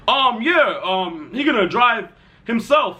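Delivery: lightly mimicked fake dad, slowing down; put-on deep voice. Friend posing as his dad answers the school, mock deep voice. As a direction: imitate a friend bluffing as a parent. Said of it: "he put on a deeper voice".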